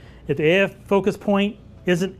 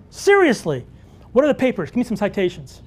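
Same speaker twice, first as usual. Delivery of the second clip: incredulous challenge; 4 semitones higher than usual. Retold or imitated. Retells his challenge to the official.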